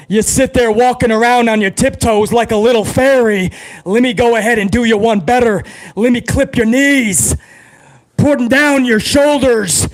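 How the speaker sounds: lightly voiced Stone Cold trash talk; Stone Cold promo. Streamer answers as Stone Cold, a light hint of gruff promo. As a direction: threaten him like a tough Texan brawler. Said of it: "could you imagine Stone Cold and the Macho Man in a promo battle".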